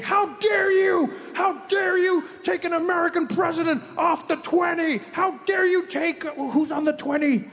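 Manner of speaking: high, drawn-out mock indignation; mock furious. Imitating Americans angry about the twenty, mock furious cry. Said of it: "People were furious".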